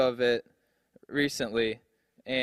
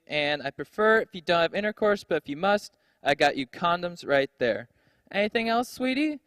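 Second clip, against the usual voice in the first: mock cheery mom; 3 semitones higher than usual. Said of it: "She's like".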